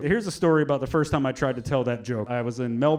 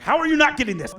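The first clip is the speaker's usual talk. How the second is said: exasperated; 10 semitones higher, 3 dB louder, faster than usual. Retold or imitated. Exasperated at the crowd.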